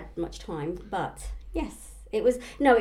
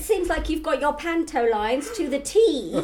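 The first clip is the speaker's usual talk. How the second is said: teasing excited; 8 semitones higher, 7 dB louder than usual. Acted. Teasing about panto lines.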